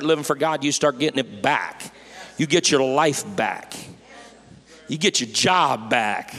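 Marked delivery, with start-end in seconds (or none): 2.4-6.3 preaching shout. Real, not acted.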